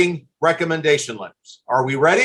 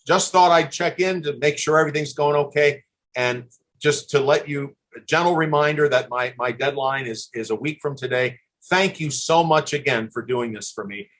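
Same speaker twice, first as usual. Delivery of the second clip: gentle reminder tone; 3 semitones lower than usual. Pretend. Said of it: "Just a very short, gentle, kind".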